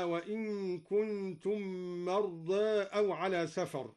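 slow recitation, tilt the final vowel of "مرضى" toward e; "مرضى" as mardae, between aa and e; taqlil. Shown as a demonstration. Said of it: "قلل قوله تعالى مرضى".

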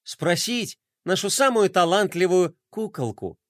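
dreamy drawl. Acted. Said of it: "мечтательно протянул".

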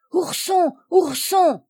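high, urgent repeated call; alarmed cry. A narrator's reading. Violette calls Ourson as the house burns, crying out. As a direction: cry out the name twice, pitched well up. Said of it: "cria Violette".

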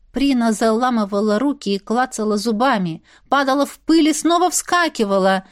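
plain reading voice

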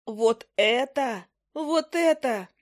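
a mock-horrified shout about the scribbles; horrified wail. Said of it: "завопила я с ужасом".

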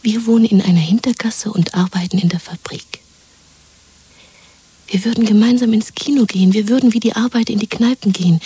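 excited, urgent whisper; eager whisper. Acted. Woman dreaming of a new life with her lover: eager whisper.

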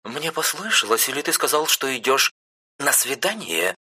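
с угрозой в голосе, выше; строгая сестра допрашивает; грозно. A narrator's reading. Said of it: "грозно произнесла она". (грозно спросить)

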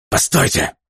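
high, urgent cry; panicked father; desperate plea. A narrator's reading. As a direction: beg him to wait. Begging for his family.

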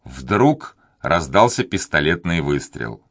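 usual speaking voice

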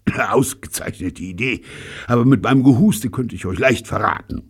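high, strained coughing speech; shaken by coughing. A narrator's reading. Sick man praises the plan to Robert, coughing. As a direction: struggle to speak through a coughing fit. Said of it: "von heftigem Husten geschüttelt".

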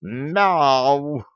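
high meow; cat meow. A narrator's reading. Cat meows.

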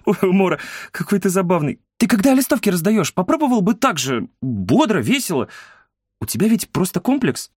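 high-pitched, animated teasing; amused woman. A narrator's reading. Woman teasing the boy about his leafleting, high amused voice.

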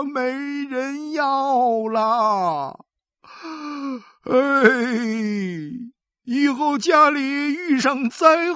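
high, loud, slow crying lament; wailing old man. A narrator's reading. Xu Sanguan wails to his wife, loud and slow. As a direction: wail out his despair. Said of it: "擦着眼泪".

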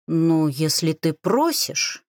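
slow, condescending favour; drawn out as if granting a great favour. Acted. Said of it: "говорит он так, словно делает мне величайшее одолжение". (снисходительно и медленно)

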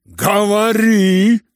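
high, loud, slow roar. Acted. General to his son, roaring. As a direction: bellow the command. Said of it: "ревел генерал".

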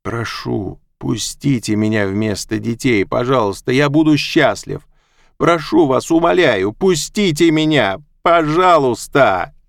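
building to loud, high sobbing plea; desperate tearful begging; pleading while crying. A narrator's reading. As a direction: beg through tears, rising. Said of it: "Он упал к её ногам, плача".

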